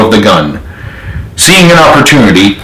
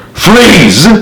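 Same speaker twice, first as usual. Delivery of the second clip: command shout; 7 semitones higher than usual. A narrator's reading. Pointing gun at general.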